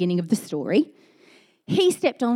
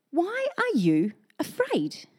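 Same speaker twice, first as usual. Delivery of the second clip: whispered; 7 semitones higher, 4 dB quieter, slower than usual. Acted. Jesus's words in reading.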